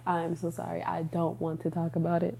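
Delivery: soft, small sorry voice; mock apology. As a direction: back away gently from the topic. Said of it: "you just sit back and be like".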